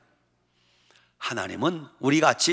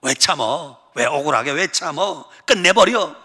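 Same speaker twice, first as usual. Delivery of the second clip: devil's whisper. Acted. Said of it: "그게 다 마귀가 하는 짓이야".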